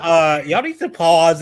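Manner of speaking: slow drawn-out pause. Retold or imitated. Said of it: "I was like".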